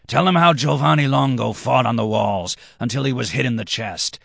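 high-pitched, urgent appeal; drunken redhead, insistent. A narrator's reading. Red-haired man begs Marius to tell, insistent. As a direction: urge him on with rising fervour.

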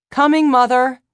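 calling out. A narrator's reading. Son calling back loudly.

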